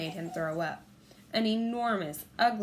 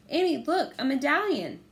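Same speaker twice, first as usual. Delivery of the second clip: loud, higher excited call; 7 semitones higher, 6 dB louder than usual. A narrator's reading. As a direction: wave her over with the find. Jack calling to distracted sister.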